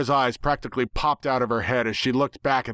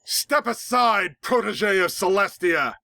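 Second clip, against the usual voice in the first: high, slow menacing monster voice; a dark creature sneering at a foe; nightmare villain; 8 semitones higher, slower than usual. A narrator's reading. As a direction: drag the words out like a looming villain.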